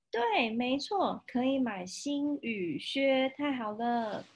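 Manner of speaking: slow, high happy kitten cheer; excited kitten. Acted. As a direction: cheer like a delighted little cat. Kitten cheering new boots.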